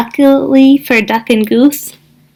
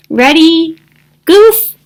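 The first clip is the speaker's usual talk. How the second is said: higher, louder call; 6 semitones higher, 4 dB louder, slower than usual. A narrator's reading. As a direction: call across the field. Thistle calling to Goose.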